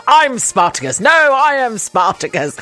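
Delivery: lightly acted heroic declaration, rising on the second claim; mock-heroic, each claim topping the last; Spartacus. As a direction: stand up and claim it, half-hearted hero. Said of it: "you know, like the Spartacus thing".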